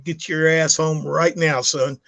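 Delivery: slow, firm fatherly command; stern order. Retold or imitated. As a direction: lay down the law, word by word. Father scolding son on phone.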